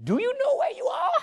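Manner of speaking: imitating a hostile Klan leader; menacing local. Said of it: "He said".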